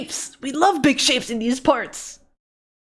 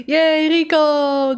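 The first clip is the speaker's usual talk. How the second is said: drawn-out happy yay; delighted greeting to a gifter; excited cheer; 5 semitones higher, much slower than usual. Real, not acted. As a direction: cheer the name out slowly. Greeting gift sub giver.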